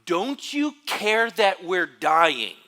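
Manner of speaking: loud, high, slow desperate cry; dramatic cry. Retold or imitated. Disciples crying out to sleeping Jesus, loud and desperate. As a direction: cry out like a sailor sure he'll drown. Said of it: "with this cry".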